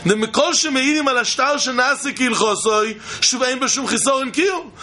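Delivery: rapid Hebrew text chant; fast gemara reading. Acted. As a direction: rattle off the text quickly.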